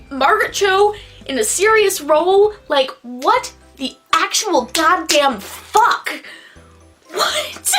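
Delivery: high, drawn-out baffled disbelief. Real, not acted. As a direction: stretch out the disbelief. Baffled outburst.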